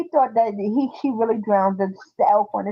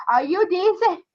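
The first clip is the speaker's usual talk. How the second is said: imitating polite boy; 9 semitones higher than usual. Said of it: "talking about".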